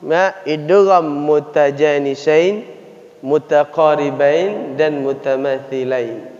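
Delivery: idgham mutajanisain said slowly syllable by syllable; careful Arabic terms. Shown as a demonstration. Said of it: "ada dia idgham".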